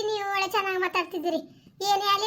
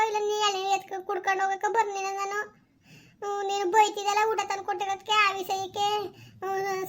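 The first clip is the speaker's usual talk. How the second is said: meek pleading; 3 semitones higher than usual. Acted. Woman pleads, begs forgiveness.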